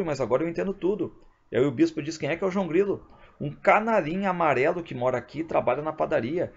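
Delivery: voz mais aguda, padre entendendo tudo; padre agitado. Acted. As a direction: fale alto e agudo, irritado no fim. Padre explica ao bispo, voz aguda. (padre explicando ao bispo, voz aguda e agitada)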